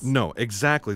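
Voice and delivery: exactly stressed, meaning precisely that. Acted. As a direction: lean on the word exactly to correct her. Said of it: "Yes, exactly".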